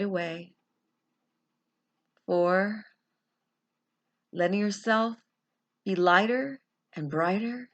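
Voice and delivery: calm guided meditation, long pauses; guided visualization. Acted. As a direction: gently lead them inward, pausing between phrases.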